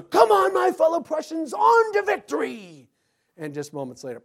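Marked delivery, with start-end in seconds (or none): 0.0-2.9 high, loud battle cry; rally the troops to charge; rallying shout. Retold or imitated. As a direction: commander urging his men forward. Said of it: "his last words were".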